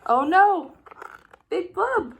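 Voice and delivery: high, loud cry of alarm. A narrator's reading. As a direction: gasp it out as the fish appears. Narrator's alarm at the fish.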